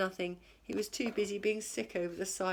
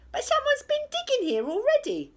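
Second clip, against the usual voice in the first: very high, loud pirate voice; an alarmed pirate spotting a dug hole; pirate Ben Buckle; 8 dB louder than usual. A narrator's reading. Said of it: "said Ben Buckle".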